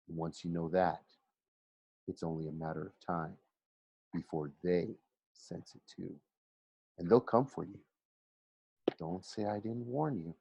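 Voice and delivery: dropping to a near whisper; ominous hush. A narrator's reading. Narrator warning the reader, hushed and ominous. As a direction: lean in and warn them quietly.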